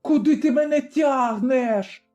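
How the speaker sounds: frightened cry. A narrator's reading. Terrified tavern keeper cries to Zaruba dragging her. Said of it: "крикнула залякана шинкарка".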